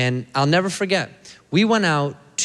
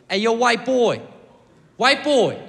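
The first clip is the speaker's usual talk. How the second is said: put-on much higher kid's call-out; accented kid; 9 semitones higher, slower than usual. Black kid calling to comedian in the hallway, put-on accent. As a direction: holler it like a cocky schoolboy. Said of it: "Great accent".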